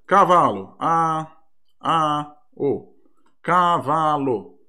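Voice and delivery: "cavalo" drawn out slowly, vowel by vowel; slow sounding out. Shown as a demonstration. Teacher demonstrates to students how a child spells "cavalo", slowly. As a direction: read "A, A, O, cavalo" slowly like a beginner. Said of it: "vou até fazer aqui".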